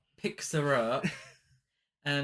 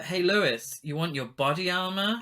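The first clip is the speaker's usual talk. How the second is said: lightly raised, higher calling voice; mock shout; 5 semitones higher, 4 dB louder than usual. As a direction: imitate someone calling out to a colleague. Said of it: "somebody shouts to her".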